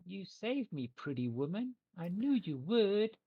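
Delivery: high, slow little creature voice; grateful creature. Acted. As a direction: speak as a tiny rescued creature, drawn out. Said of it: "and the creature goes".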